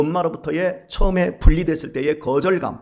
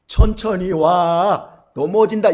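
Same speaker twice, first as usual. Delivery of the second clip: slow, louder, caring call; caring parent call; 4 dB louder, much slower than usual. Retold or imitated. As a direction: warn the child gently to slow down. Parent calling to running child. (천천히, 다정하게 아이에게 외치는 부모)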